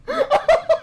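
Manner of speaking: high-pitched real laugh. Real, not acted. Laughing at the job-hunting quote, real high laugh. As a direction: crack up in high bursts. Clip makes the host laugh.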